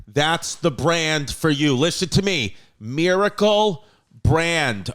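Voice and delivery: punchy pitchman delivery with stretched brand names; hard-sell the product straight at the listener; emphatic podcast sponsor read. Acted. Reads a sponsor ad.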